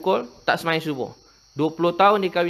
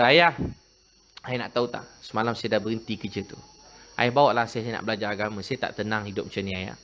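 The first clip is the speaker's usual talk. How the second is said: a lightly voiced child begging gently; pleading child; 5 semitones lower than usual. Repentant child pleading to father. (anak merayu ayah dengan suara perlahan dan lembut)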